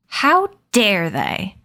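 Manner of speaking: slow, drawn-out snarl of outrage; indignant slow snarl on how. Acted. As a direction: spit it out slowly, offended. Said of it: "Addison snarled".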